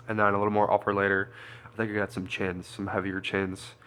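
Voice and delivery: stuffy nose; congested sinus voice; blocked nose. Real, not acted. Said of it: "If you couldn't tell, I'm a little, like, congested".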